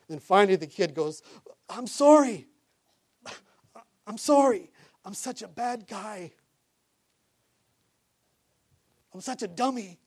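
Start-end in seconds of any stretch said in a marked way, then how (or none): 1.7-10.0 put-on high, wailing kid voice; imitated tearful apology. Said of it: "they're crying the whole time".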